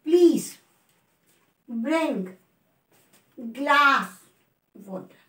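Please, bring, glass, water each said alone and stressed, falling away on water; a teacher reading back just the marked stress words; stressed words only. Shown as a demonstration. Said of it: "stress को mark करना है".

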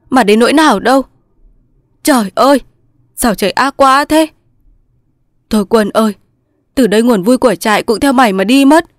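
acted grief, lamenting to a lost friend; aggrieved. A narrator's reading. Thành mourns his comrade's pointless death, aggrieved. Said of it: "Thành ấm ức".

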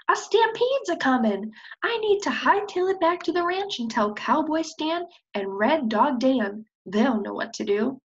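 high, urgent hen voice; excited prairie chicken. Acted. Prairie chicken warns of a coming stampede, urgent. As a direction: hurry the news out.

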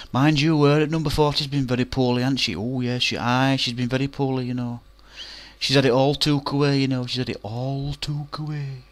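high, loud gossiping housewives; gossiping old women. Retold or imitated. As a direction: natter with relish about a poorly neighbour.

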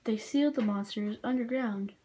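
flat storybook narration; narrator voice. Acted. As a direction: read it like a game intro. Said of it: "I'll be the narrator voice".

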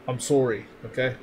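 rounded Canadian "sorry"; best Canadian accent, lightly done. Shown as a demonstration. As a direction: apologize in a put-on Canadian accent. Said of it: "in my best Canadian accent".

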